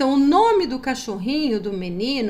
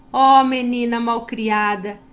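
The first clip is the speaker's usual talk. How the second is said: louder, mock telling-off of a rude girl; mock scolding; 6 dB louder than usual. Shown as a demonstration. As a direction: scold her, hammed up for children. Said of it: "eu vou ler novamente o texto".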